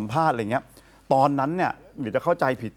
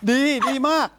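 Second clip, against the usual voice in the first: retold praise; 9 semitones higher than usual. Praising his court testimony, mimicked high gushing. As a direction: imitate gushing approval up high.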